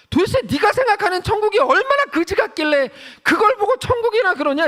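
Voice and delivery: high-pitched, exasperated rebuke; indignant scolding. Acted. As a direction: scold them in mock outrage. Acted scolding of such people. (높은 목소리로 어이없어하며 호통치기)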